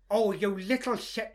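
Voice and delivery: slow mock scolding in an Irish accent; imitated Irish mum. Son imitates pissed-off mum, slow Irish-accented scolding. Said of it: "She goes more Irish by far".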